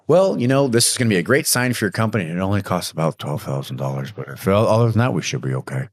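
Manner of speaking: lightly voiced nervous rep, upbeat at first, then shrinking on the price; a hint of an embarrassed salesman backing off the price tag. Shown as a demonstration. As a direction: sell it brightly, then lose your nerve when the price comes up. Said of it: "watch your sales rep lower his voice when it comes to the price tag".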